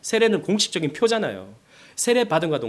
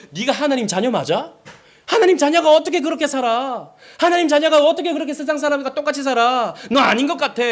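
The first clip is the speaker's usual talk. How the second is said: lightly voiced accuser, high and raised; accusing devil; 10 semitones higher, 6 dB louder than usual. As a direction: challenge them as the tempter, pitched up. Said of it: "마귀가 우리에게 그렇게 시험한다고요".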